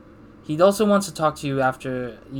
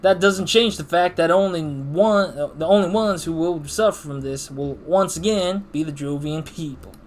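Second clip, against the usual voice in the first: stern rebuke; 3 semitones higher, 4 dB louder than usual. Acted. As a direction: press each word of the rebuke. Voiced game dialogue argument.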